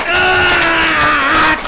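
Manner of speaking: long high scream of rage; drawn-out howl of outrage; enraged scream. Real, not acted. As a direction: scream out in loud frustration. Host erupts over spliced prank call.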